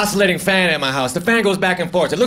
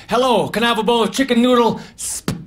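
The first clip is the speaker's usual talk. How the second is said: mock Southern accent; 5 semitones higher than usual. Comic ordering soup in the South, mock Southern accent. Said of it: "I try to talk like that so people understand me".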